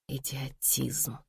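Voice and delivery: very soft and slow, to herself; inner thought. A narrator's reading. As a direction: mutter the verdict inwardly. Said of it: "подумала Лиза". (про себя, тихо)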